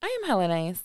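overly sweet, helpful shop-assistant tone; customer service voice. Acted. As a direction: say "I am hella nice" like a polite help desk clerk. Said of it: "You got the customer service voice on again".

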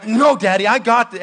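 mildly mock-stubborn little kid protest; frustrated child. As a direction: push back like a cross small child. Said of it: "she'll start getting angry".

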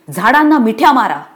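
loud, high command; rallying yell; shout. Acted. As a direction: urge the women to hug the trees. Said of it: "ती ओरडली".

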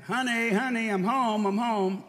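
high, loud repeated call. Retold or imitated. Calling to silent wife.

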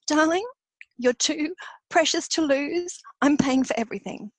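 close to tears. Real, not acted. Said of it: "I can't say this without crying".

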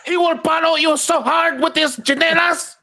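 high-pitched scolding Filipino mom; Filipino mom accent. Retold or imitated. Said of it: "in a Filipino accent".

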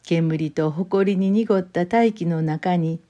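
slow, measured literary reading; unhurried storyteller voice with long pauses; story narration. A narrator's reading. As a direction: read the Osaka memoir calmly, savouring each image. Reads the short story aloud.

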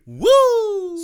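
high shouted woo; piercing Nature Boy woo; Ric Flair woo. Retold or imitated. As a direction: answer back with a wild woo.

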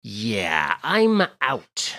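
lightly voiced celebrity making an exit; bad star impression with a drawn-out sign-off; Jack Black. Celebrity guest bowing out of the podcast, lightly impersonated. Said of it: "was that Jack Black in the hallway".

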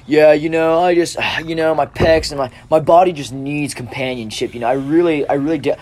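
hammed-up bro voice; mock Chad. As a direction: play a dumb jock gushing about soul. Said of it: "like, all Chads".

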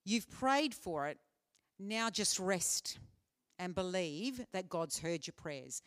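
slow, gentle reassurance to rest; a friend's slow, calm counsel; gentle advice. Retold or imitated. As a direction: ease them out of striving, slowly. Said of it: "someone said to me".

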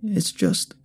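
slow, high plea; soft pleading woman. A narrator's reading. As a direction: beg forgiveness in an old woman's voice. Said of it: "Her soft voice can't fool me again".

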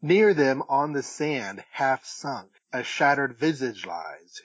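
slow, measured poetry recital; unhurried recitation, phrase by phrase; poem reading. Acted. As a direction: read the verse out with deliberate weight. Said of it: "I'll just read it".

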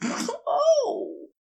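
Aziraphale, wild. A narrator's reading. Angel ranting at the geologist, high and heated. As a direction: raise the pitch and let him rant.

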